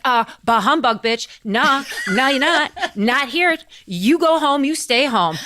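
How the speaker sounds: lightly hammed-up curt refusal; comic scolding boss; dismissive Scrooge. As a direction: wave him off with mock grumpiness. Scrooge dismisses Bob, mocking retelling.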